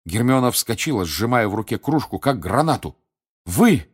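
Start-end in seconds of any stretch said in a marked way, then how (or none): 3.4-3.9 angry, slow, through clenched teeth; through gritted teeth. A narrator's reading. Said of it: "проговорила она сквозь стиснутые зубы". (сквозь стиснутые зубы)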